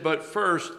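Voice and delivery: "first" leaned on, drawn out a little; stress on first. Shown as a demonstration. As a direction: hit the word "first" firmly. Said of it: "I wanna emphasize first".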